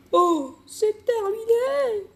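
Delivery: nasty high-pitched mother voice; unpleasant mom voice. Acted. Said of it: "je vais faire une voix désagréable pour la daronne".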